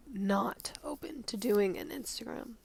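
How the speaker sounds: soft teasing whisper. Real, not acted. Teases podcast listeners about a possible Instagram, whispered. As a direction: drop to a secret whisper, hinting.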